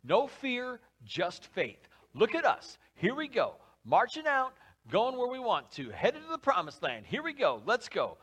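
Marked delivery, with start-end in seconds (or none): 2.1-8.2 lightly voiced bold marching cheer; a touch of swagger, heading out; cocky Israelites. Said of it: "And they're like".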